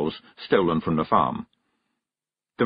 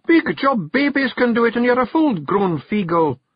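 high, louder Scots taunt; teasing Kelda; 14 semitones higher, 4 dB louder than usual. Acted. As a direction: shame him into it. Jeanie's voice.

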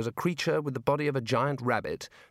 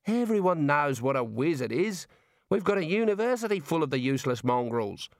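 put-on Australian girl voice; 3 semitones higher than usual. Neelet's lines in the story.

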